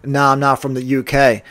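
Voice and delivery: understated, even, matter-of-fact denial; stoic. Retold or imitated. Uber driver answering a passenger politely, stoic and restrained. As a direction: answer with no reaction at all. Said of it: "my response was just stoic".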